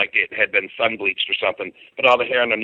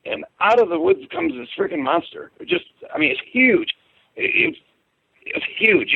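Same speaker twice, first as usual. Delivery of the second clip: much higher, wide-eyed telling of the monster; amazed retelling. Retold or imitated. Telling a listener about the swamp monster, voice jumping high in awe. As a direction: let the pitch leap as you relive seeing it.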